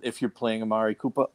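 Boston accent, "Cooper" said as "Coopah" with no r. Real, not acted. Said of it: "there's my Boston accent".

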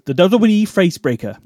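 high put-on rural English old lady accent; imitating an old English countrywoman's accent. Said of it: "Great attempt at the accent".

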